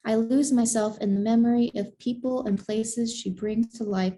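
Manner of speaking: measured picture-book reading, savoring each phrase; story narration. A narrator's reading. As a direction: read it to children in unhurried phrases. Reads a picture book aloud.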